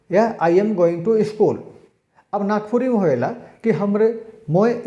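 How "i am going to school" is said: each word said slowly and clearly; slow example sentence. Shown as a demonstration. Teacher slowly reading out an example sentence. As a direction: spell the English out slowly for the class. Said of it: "जैसे रौरे कहेला".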